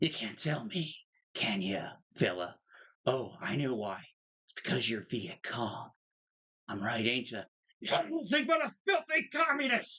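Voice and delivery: jeering taunt with pitch swinging around. Retelling a soldier taunting a war photographer: Steve Blum impression. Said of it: "I'm gonna do my Steve Blum impression now".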